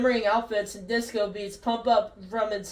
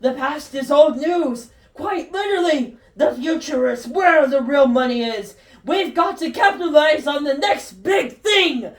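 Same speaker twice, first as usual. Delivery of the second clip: grinning madly; 3 semitones higher, 4 dB louder than usual. Acted. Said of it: "Doc Brown grinning madly".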